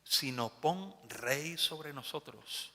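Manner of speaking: stubborn demand. Acted. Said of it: "Y habéis dicho".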